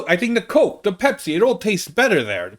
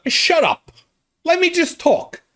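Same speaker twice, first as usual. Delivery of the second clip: exasperated; 12 semitones higher than usual. Real, not acted. Annoyed at correctors.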